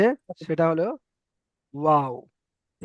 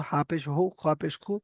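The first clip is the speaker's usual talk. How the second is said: running recitation; 4 dB quieter than usual. Shown as a demonstration. Teacher runs through the pesh list quickly, without stretching. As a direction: rattle through the spellings unstretched. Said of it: "আমি একটু running বলে দিলাম".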